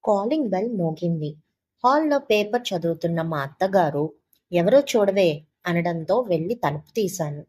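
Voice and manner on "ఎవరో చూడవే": a louder, curt call to see who's at the door; bossy mother-in-law. Retold or imitated. Mother-in-law reading the paper orders her daughter-in-law to answer the door, loud and curt. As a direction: bark the order from the hall.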